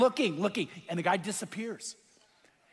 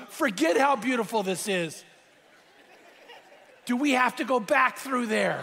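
laughing worry; 3 semitones higher than usual. Retold or imitated. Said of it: "And the pastor goes".

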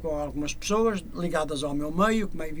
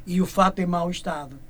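measured verse, pausing between lines, settling lower; poem recitation; 3 semitones lower than usual. Acted. Singer ending his Father Christmas verse, poem recitation.

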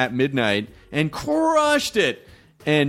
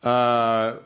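press spokesman. Pretend. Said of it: "felt like your attorney".

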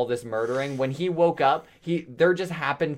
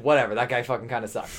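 dismissive; 4 semitones lower, faster than usual. Retold or imitated. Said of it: "completely were like".

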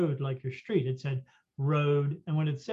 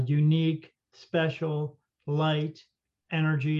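flat, even machine voice, word by word; computer voice; slower than usual. Retold or imitated. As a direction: read each word like a talking gadget. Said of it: "It said it in this computer voice".

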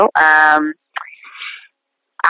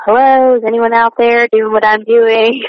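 calling out; 5 semitones higher, 4 dB louder than usual. Pretend. Imagined call into the void.

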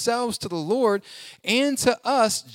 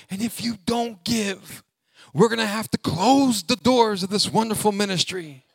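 a hint of a manipulative pastor; mock guilt-tripping pastor. Pastor mocking a preacher who pressures giving, lightly voiced. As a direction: lightly play a pushy pastor begging for money. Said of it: "some pastor up there going".

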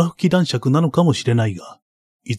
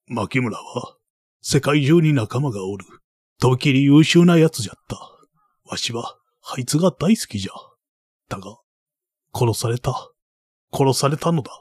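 put-on creaky wise old man. Baron tells of the death.

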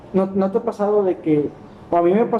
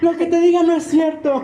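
teasing jab; 11 semitones higher than usual. Real, not acted. Teasing friend, high-pitched joke.

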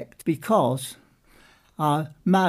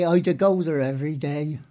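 Wiltshire dialect. Shown as a demonstration. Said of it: "You say".

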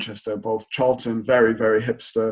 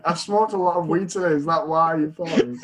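higher, laughing stoner joke voice; mock Dutch stereotype; 4 semitones higher than usual. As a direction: play the Dutch cliché while laughing. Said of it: "worst stereotypes of Dutch people".

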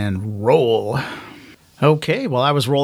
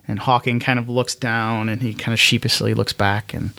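ordinary delivery

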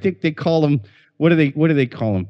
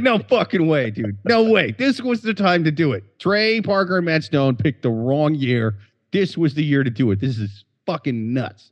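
excited tripping guy. Pretend. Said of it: "They'd be like".

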